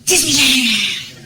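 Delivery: put-on high, eager little boy pointing at the TV; boy telling April to look at the TV; excited kid voice. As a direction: play the kid, thrilled, drawing out Disneyland slowly. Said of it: "He goes".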